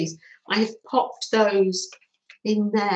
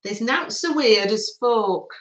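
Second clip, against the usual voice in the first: put-on a light northern English accent, like her dad; a hint of a northern accent, quoting a saying. Quoting her dad's saying to viewers, lightly northern accent. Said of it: "as my dad would have said in a northern accent".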